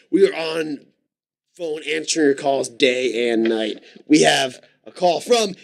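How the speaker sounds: slow, announcer-style hosting patter; radio call-in host. Pretend. Host greets caller Daniel on a call-in show, announcer patter.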